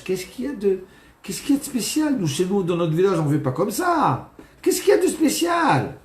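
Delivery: high, bewildered questioning; baffled guest. Acted. Village guest puzzled by the rabbi, bewildered high voice. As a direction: ask in utter disbelief.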